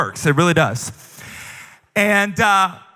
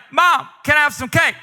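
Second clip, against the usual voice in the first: put-on child voice; 7 semitones higher than usual. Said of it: "He's like".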